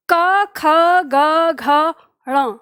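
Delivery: क, ख, ग, घ, ण each said slowly and clearly from the throat; velar letters demo. Shown as a demonstration. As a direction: sound out क ख ग घ ण one by one. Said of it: "जैसे आप उच्चारण करके देखिए". (कंठ से क, ख, ग, घ, ण का धीमा स्पष्ट उच्चारण)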